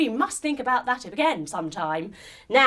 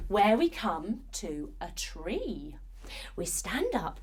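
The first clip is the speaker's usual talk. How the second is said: hushed whisper; 3 semitones lower, 5 dB quieter, slower than usual. Acted. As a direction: whisper it to the children. Quiet story moment.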